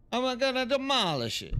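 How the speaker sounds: hammed-up mock villain; playful falsetto threat; silly voice. Mock voice repeating the command.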